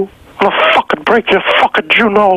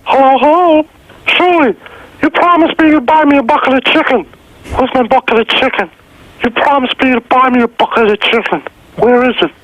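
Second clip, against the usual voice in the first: lightly raised, whiny voice demanding his chicken; High Pitch Eric impression. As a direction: whine like a man promised fried chicken. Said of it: "High Pitch Eric, as done by the speaker".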